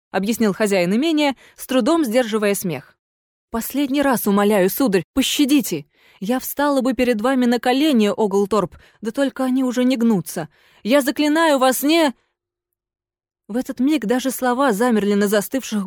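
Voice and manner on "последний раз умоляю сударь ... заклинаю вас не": final plea of ghost. Acted. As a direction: beg for mercy as she freezes.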